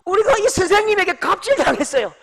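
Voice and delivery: high, loud mock complaint to a hotline; indignant complainant. Disciples phoning in an abuse report, indignant complaint. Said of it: "갑질 신고 전화".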